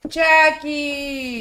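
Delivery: high, drawn-out cry of the name; mock wailed call. Lamenting the actor's lost millions, high mock wail.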